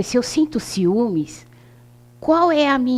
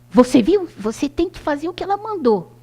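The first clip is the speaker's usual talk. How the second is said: gentle instruction; 7 semitones higher than usual. Retold or imitated. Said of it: "a senhora falou assim".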